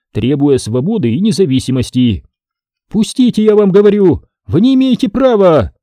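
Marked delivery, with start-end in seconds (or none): 2.9-5.7 high, loud indignant demand; demanding shout. Acted. Tatyana Ivanovna demands soldiers let her through, shrill shout. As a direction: push past the soldiers with your voice.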